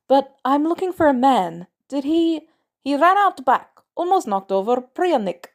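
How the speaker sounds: urgent, breathless. A narrator's reading. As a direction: press her for answers in a rush. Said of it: "a little out of breath".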